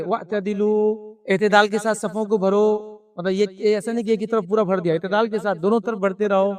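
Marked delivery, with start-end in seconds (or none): 0.0-1.1 very slow, stretched Arabic call. Retold or imitated. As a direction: draw out every syllable of واعتدلوا. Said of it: "اعلان کرتے". (واعتدلوا بہت آہستہ، کھینچ کر)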